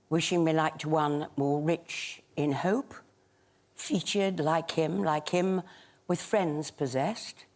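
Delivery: measured, solemn poetry reading; sonnet recitation. Shown as a demonstration. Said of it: "I'll do a sonnet".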